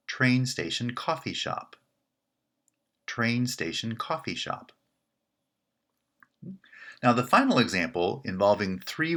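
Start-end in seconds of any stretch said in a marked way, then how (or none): 0.1-1.8 coffee shop strongest, Train station weaker; larger compound stress. Shown as a demonstration. Teacher showing four-word compound stress. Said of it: "the structure would look like this". 3.1-4.7 coffee shop strongest, Train station weaker; larger compound stress. Shown as a demonstration. Teacher showing four-word compound stress. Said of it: "the structure would look like this".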